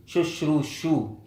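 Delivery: Shushru shu drawn out slowly, each syllable separate; slow repeated syllables. Shown as a demonstration. Teacher spells the word out slowly for students, slow and careful. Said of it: "You repeat the sha".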